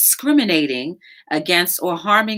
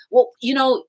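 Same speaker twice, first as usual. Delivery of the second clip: excited woman; 9 semitones higher, 4 dB louder than usual. Retold or imitated. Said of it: "the woman was getting excited".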